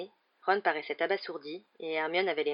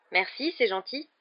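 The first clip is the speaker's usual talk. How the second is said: high, huffy little thanks; pointedly wounded, pitched up; offended; 6 semitones higher, 4 dB louder than usual. A narrator's reading. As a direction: thank him as if insulted. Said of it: "répondit Ginny d'un air offensé".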